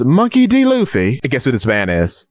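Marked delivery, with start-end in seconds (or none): 0.0-1.2 surprised question. Acted. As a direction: catch the name, startled. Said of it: "someone turns to him and says".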